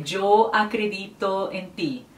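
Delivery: "yo acredito en ti" said slowly as a wrong example; slow, deliberate mistaken phrasing; wrong Spanish. Shown as a demonstration. Teacher showing viewers the wrong phrasing, slow wrong example. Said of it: "Não".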